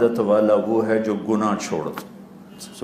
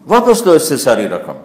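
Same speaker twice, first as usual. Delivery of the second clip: angry queen; 4 semitones higher, 5 dB louder than usual. Acted. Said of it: "وہ ایسے غصے میں آ گئی".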